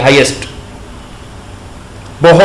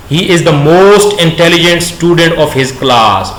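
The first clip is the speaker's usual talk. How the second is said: slow dictation; much slower than usual. Shown as a demonstration. Teacher dictating example sentence.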